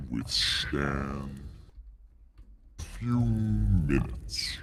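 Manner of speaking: a lightly voiced ancient dragon, weighing the offer.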